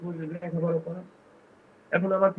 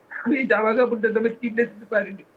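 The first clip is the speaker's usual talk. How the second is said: higher, crying out the regret; real tearful breakdown; 4 semitones higher, 3 dB louder than usual. Real, not acted. Father unable to buy his son clothes, breaking down. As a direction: break into tears as you confess it. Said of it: "কান্নায় ভেঙে পড়েছেন".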